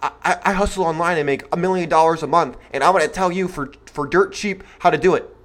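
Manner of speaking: a lightly voiced, hushed online hustle guru pitching a get-rich scheme; soft, slick sales patter aimed at young men. Host mocks hustle gurus for his young listeners, a hushed slick pitch. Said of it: "get up here and say".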